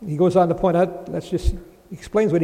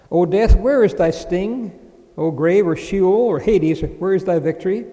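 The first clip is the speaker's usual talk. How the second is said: fervent proclamation; 5 dB louder than usual. Acted. Climactic scripture reading.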